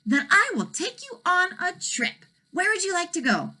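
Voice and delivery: high dragon voice offering a trip; kind dragon. Acted. Dragon offers Elmer a trip, high and eager.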